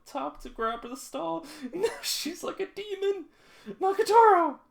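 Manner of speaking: high loud excited yelling. Real, not acted. Streamer hyped as she jumps, loud yelling. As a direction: shout it out amazed.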